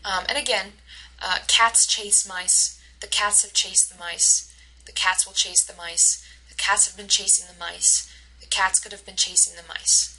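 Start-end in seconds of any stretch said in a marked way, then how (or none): 1.5-10.1 CATS, CHASE and MICE always stressed; stress-timed content words. Shown as a demonstration. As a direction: keep beats on "cats", "chase", "mice", squeeze the words between. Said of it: "cats, chase, and mice always get the stress".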